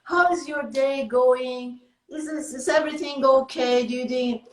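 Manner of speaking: bright, friendly hello to a clerk; friendly greeting. Retold or imitated. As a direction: greet her like an old friend. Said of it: "I'm so friendly and I said".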